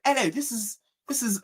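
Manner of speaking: high, soft prank-caller voice; pretend executive. Prank caller introducing himself to his friend, pretend executive voice. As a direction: introduce yourself as a fake executive, softly. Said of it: "pretended to be an executive".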